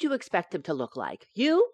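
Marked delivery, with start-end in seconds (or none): 1.3-1.7 high, loud mocking question; teasing disbelief. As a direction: scoff at his guess. Wife mocking husband's expectation.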